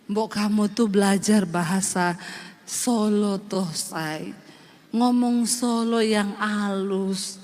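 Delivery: low, slow, soft Javanese husband; husband's soft Solo voice. Retold or imitated. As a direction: coax her to speak gently. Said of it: "dia bilang gini". (suami orang Solo menasihati dengan pelan)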